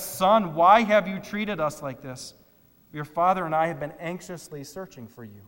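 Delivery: loud, pressing mock scolding of a son; loud overthinking worry. Preacher mocking anxious Mary, loud pressing voice. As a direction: scold him loudly, overwrought parent. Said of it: "the more you are going to sound like this".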